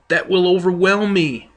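mock panic as the wave looms; Peter crying out in fear. Peter cries out as waves overwhelm him, mock fearful cry. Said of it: "and he cried out".

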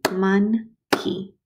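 monkey drawn out slowly, syllable by syllable; stretched syllables. Shown as a demonstration. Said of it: "use your syllables and stretch out".

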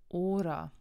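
hora with the stress on its first syllable, ho-. Shown as a demonstration. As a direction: lean on the opening O of hora. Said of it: "werden auf der vorletzten Silbe betont". (hora mit Betonung auf der vorletzten Silbe)

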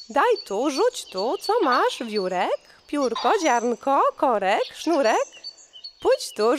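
high quarrelsome bird chatter; squabbling birds. Acted. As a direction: bicker like birds over a crumb.

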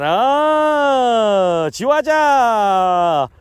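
long drawn-out, chanted cheer; showy catch celebration; new celebratory reaction. Pretend. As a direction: stretch the last words into a festive whoop. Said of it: "나 지금 새로운 리액션 하고 있는 거야".

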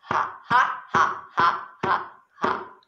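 breathy staccato mock ha-ha; put-on storybook laugh; acted laughter. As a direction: pretend to laugh in even little puffs. Acts laughter at poem's end.

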